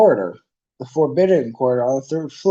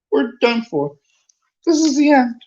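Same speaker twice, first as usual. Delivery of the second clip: high, louder despair; despairing moan; 12 semitones higher, 6 dB louder than usual. Acted. Ron despairing at the locked door. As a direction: give up aloud. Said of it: "Ron moaned".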